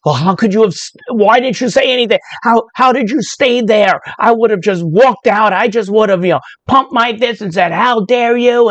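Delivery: hint of an outraged critic; indignant critic. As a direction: play the outraged community member. Imagined critics from her community.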